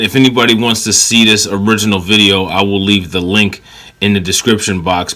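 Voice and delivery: ordinary delivery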